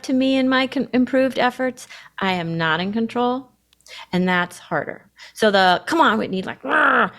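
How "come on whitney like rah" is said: inner coach voice. Retold or imitated. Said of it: "that voice".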